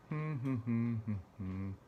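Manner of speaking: closed-mouth chuckle sliding downward. Real, not acted. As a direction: chuckle through a hum. Sound alone on a line.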